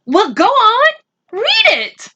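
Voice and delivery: high, excited urging; a mother thrilled, urging her son; eager mother. Acted. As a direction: push him to open it.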